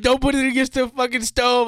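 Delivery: high scolding yell; scolding mother. Retold or imitated. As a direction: yell it like a warning mom. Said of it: "My mother's like".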